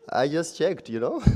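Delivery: chuckling through the words; laughing. Real, not acted. Debater joking to the room about English, laughing. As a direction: laugh it off lightly.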